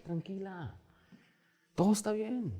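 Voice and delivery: very soft reassuring hush; calm a frightened daughter; soothing father. Retold or imitated. Father calming his daughter.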